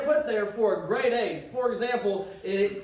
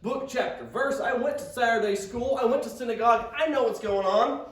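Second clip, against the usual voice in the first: put-on excited young man; 3 semitones higher than usual. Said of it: "I mean, he is excited".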